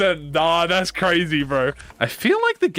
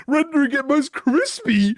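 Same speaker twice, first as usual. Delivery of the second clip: archaic narrator; 8 semitones higher than usual. Acted. Reading archaic game master narration.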